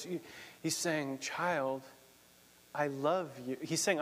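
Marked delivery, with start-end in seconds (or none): 1.2-3.6 tender. Acted. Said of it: "in the most tender voice".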